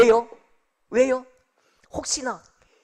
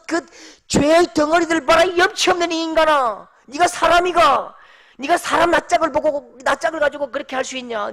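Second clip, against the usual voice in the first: taunting Satan; 2 semitones higher than usual. Acted. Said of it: "사탄은 우리에게 속삭입니다".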